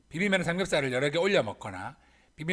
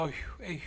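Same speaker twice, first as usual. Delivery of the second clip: mother's worried sigh over money; weary sigh; 7 dB quieter, faster than usual. Acted. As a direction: let out two tired, acted sighs. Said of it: "한숨을 쉽니다". (걱정 섞인 엄마의 한숨)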